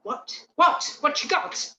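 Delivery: a dog pestering its owner to see the new thing; eager dog voice. Retold or imitated. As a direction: play the nosy dog who wants a look. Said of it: "these dogs then start to say".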